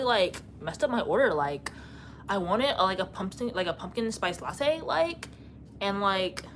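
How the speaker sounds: put-on Valley Girl accent with uptalk and drawn vowels; Valley Girl impression. Streamer doing a requested impression, Valley Girl accent. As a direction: put on a Valley Girl voice, lilting up at phrase ends. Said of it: "Do a Valley Girl impression".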